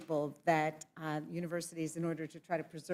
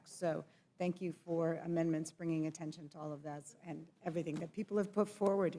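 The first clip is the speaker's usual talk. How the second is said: losing voice. Real, not acted. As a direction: voice giving out. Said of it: "losing my voice".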